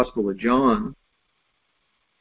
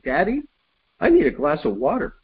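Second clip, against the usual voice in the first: put-on higher, childlike plea from upstairs; little boy voice; 5 semitones higher than usual. A little boy calls down to his dad for water, childlike plea. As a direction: play the kid calling down for water.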